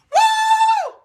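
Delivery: high whooping cheer; excited woo. Real, not acted. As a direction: let out a celebratory woo. Celebrating first candidate.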